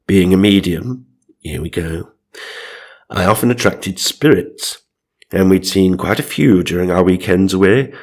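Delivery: measured first-person ghost-story reading; storyteller setting the scene; story narration. A narrator's reading. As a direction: read it out as a solemn personal memoir. Reads out listener's story.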